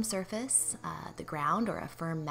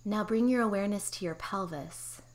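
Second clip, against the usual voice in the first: guided meditation. Real, not acted. Therapist guiding listeners through pelvic floor relaxation, calm meditation voice. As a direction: guide them gently into relaxation, unhurried.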